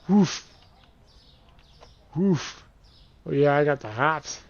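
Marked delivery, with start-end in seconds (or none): 0.1-2.6 high, loud barked cheer; excited woof; playful woof. Real, not acted. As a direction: bark it out in triumph. Celebrating the dunk.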